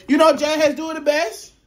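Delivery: laughing. Real, not acted. Laughing high teasing.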